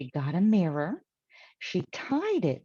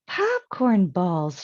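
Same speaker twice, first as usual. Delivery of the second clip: louder, slow delighted call; joyful shout; 5 dB louder, slower than usual. Acted. Aunt Myra, delighted by the tree, calls out louder and slow. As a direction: exclaim with glee. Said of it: "shouted Aunt Myra".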